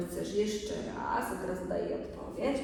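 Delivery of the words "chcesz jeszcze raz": put-on slow question to a small child; drawn-out, patient asking; demonstrated question. Shown as a demonstration. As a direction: ask slowly, stretching the words. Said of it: "Zobaczcie, że jak pytam, to pytam się".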